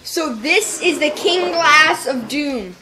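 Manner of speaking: slow, grand announcer voice; grand announcement. Real, not acted. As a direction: proclaim it like a title. Grand naming of the drink.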